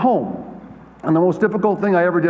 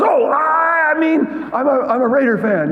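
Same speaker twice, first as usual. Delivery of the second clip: imitating the mother; 11 semitones higher than usual. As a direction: play the fan's mother, breathless. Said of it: "Then she goes".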